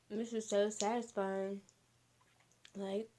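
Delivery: talking through a mouthful; words round a bite of food; mouth full. Real, not acted. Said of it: "I can't even talk".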